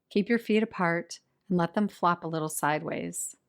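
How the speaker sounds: measured yoga nidra instructions with long pauses; guided meditation. Real, not acted. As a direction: settle listeners into position, unhurried and even. Leads a guided relaxation practice.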